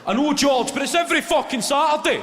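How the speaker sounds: very loud and high, fed up; exasperated shout. Retold or imitated. Parent shouting back at George on the touchline, loud and high. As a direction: yell back in fury. Another voice in the row.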